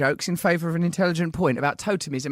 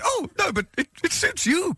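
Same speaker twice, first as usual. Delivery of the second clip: much higher, simpering voice; mock girlfriend; 11 semitones higher than usual. Girlfriend teases a stranger about the name Kenneth, simpering. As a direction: coo it sweetly. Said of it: "And she went".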